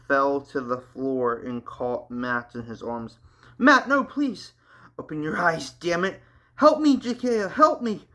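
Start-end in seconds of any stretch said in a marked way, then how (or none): 3.6-8.1 high, frantic pleading cries; screaming. A narrator's reading. Andrew holding his dying brother, high frantic screams. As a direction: beg desperately for help. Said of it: "screamed Andrew".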